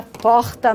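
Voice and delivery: porta with a throaty R; porta other variant. Shown as a demonstration. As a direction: say porta with a guttural R. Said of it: "Independe se ele fala". (porta com R aspirado)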